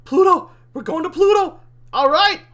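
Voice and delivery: high, loud celebratory cheer; elated. Acted. Demon celebrating the trip to Pluto, elated. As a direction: whoop it like a victory.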